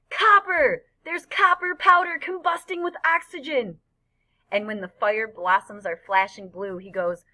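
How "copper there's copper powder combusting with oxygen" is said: very high, loud exclamation; excited scream. A narrator's reading. Freak screaming from his friend's shoulders at fireworks, excited scream. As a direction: shriek the discovery with wild excitement. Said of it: "Freak tugs my hair and screams".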